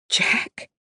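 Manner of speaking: whispered name, barely voiced; breathed. A narrator's reading. Grandmother breathing her lost love's name in shock. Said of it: "she breathed".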